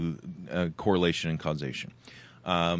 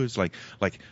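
usual speaking voice

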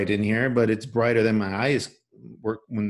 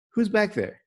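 lightly voiced sister, higher pitch; mock puzzled sister, pitched up; imitating sister; 10 semitones higher, 3 dB louder than usual. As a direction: sister asks again, higher. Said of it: "my sister walks in and is like".

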